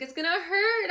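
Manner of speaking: loud, high-pitched imitated cry; mock sobbing wail. Daughter crying to her dad about the tattoo, mock wailing. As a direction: wail it like a hammed-up ugly cry. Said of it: "crying and sobbing".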